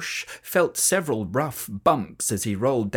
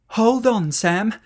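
louder higher call; 7 semitones higher, 5 dB louder, slower than usual. A narrator's reading. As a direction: shout encouragement. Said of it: "called Lucy".

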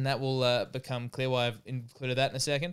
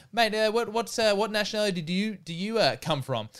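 higher fumbling bouncer; hesitant, higher questioning bouncer; imitating the bouncer; 8 semitones higher than usual. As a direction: bouncer pressing the comedian, lightly voiced. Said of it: "and he goes".

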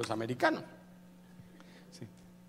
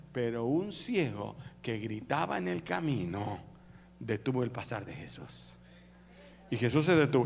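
ordinary talk

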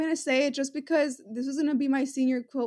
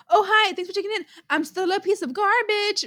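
excited recited quote; 5 semitones higher than usual. Retold or imitated. Reciting suddenly remembered video line.

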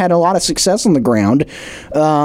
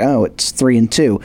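lower, deflated take; unimpressed shrug; 4 semitones lower than usual. Retold or imitated. Fan shrugging at a shaky record, lower and deflated. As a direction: say it like the record means nothing. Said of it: "You're like".

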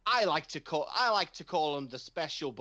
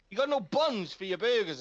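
ranting; 4 semitones higher than usual. Retold or imitated. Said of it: "I started ranting".

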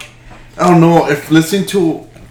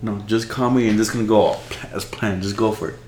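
whispering; 3 semitones lower, 7 dB quieter than usual. Real, not acted. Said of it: "Why are you whispering".

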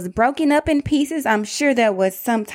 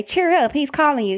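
lightly acted, higher-pitched encouragement; a touch of put-on cheer, pitched up; mock cheering on; 4 semitones higher than usual. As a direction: imitate a crowd suddenly turning chirpy. Crowd suddenly encouraging the beggar, acted.

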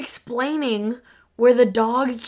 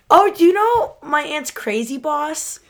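put-on loud, higher-pitched little girl; high, hushed-edged child voice; 6 semitones higher, 5 dB louder than usual. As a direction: imitate an excited kid asking.

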